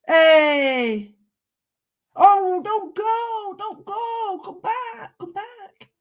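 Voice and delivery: high, slow squeaky cry after escaping paper; giddy. Pretend. Giddy crafter begging paper not to leave, high squeaky plea. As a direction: play it silly and giddy, pleading. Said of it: "Sorry, I'm in a giddy mood".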